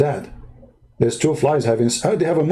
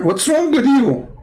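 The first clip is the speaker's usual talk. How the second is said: mock outrage; 10 semitones higher than usual.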